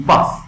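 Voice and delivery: "باس" with a bursting b; "باس" as a short English "bus"; explosive B. Shown as a demonstration. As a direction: pop the b of "باس".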